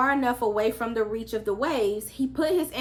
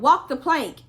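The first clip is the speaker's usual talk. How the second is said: higher, louder pirate call; pirate shout; 5 semitones higher, 7 dB louder than usual. A narrator's reading. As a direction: bellow it like a pirate. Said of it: "yelled out".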